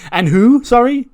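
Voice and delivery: high, loud incredulous questions; baffled disbelief. Retold or imitated. Lyra questioning Becky about the name, baffled disbelief. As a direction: pitch shoots up in sudden confusion.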